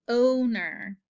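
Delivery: "owner" with a long, held opening O; long O stretched. Shown as a demonstration. Teacher repeats the word for pupils, opening O drawn out. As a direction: lean on the first vowel of "owner". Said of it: "starts right out with a long O sound".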